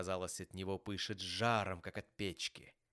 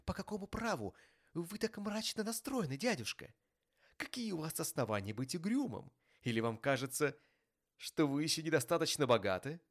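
high, lively teasing comeback; cheerful; 8 semitones higher, 3 dB louder than usual. A narrator's reading. Nephew teasing his gloomy rich uncle, cheerful. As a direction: turn the questions round brightly and playfully. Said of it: "весело отозвался племянник".

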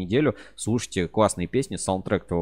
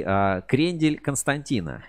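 laughing; 5 semitones higher, slower than usual. Real, not acted. Reads a funny misspelled answer.

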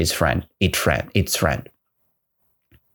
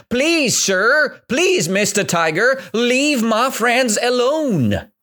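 pleading elephant; 2 semitones higher than usual. Acted. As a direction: beg the tiger to let her friends go. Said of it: "that is why the elephant said".

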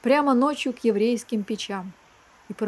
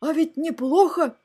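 high, appreciative dragon voice; mock-delighted storybook monster; pleased dragon head; 6 semitones higher than usual. A narrator's reading. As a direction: relish it in a pitched-up put-on voice. Dragon head enjoys the blow.

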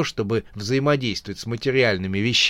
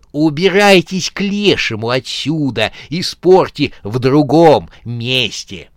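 angry corpse; 6 dB louder than usual. Acted. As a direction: get rid of them. Angry corpse drives them away.

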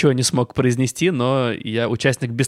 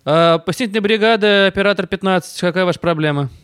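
dispatcher voice; 5 semitones higher than usual. Pretend. Mock dispatcher answers call.

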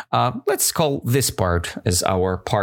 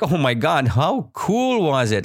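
acted delight; 4 semitones higher than usual. Teacher voicing the woman after her luck, delighted. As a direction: stretch it out, impressed. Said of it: "She's like".

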